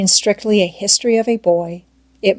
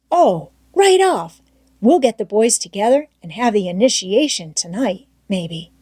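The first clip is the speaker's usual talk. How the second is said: Tom Sawyer's voice; 2 semitones higher than usual. Acted. Tom coaxing Huck to stay, eager boyish voice. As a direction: pitch up into a keen young boy.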